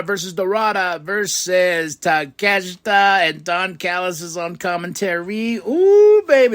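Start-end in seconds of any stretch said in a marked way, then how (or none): 5.6-6.5 high, loud thrilled squeal; a gleeful high coo of delight; excited ooh. Real, not acted. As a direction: let the hype burst out. Hyped recap of a tease.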